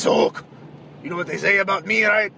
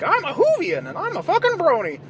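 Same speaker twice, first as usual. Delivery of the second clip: mock nerd contestant; 11 semitones higher than usual. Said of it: "so I guess they have".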